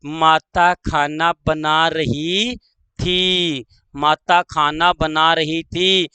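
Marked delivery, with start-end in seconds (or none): 0.1-3.6 slow, last word set apart; slow dictation. Shown as a demonstration. Teacher dictating the mother example, slow dictation. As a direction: draw out the verb, pause before थी.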